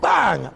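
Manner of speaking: short, sudden vocal bang; imitated explosion bang. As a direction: drop in a quick blast noise. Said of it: "Another explosion".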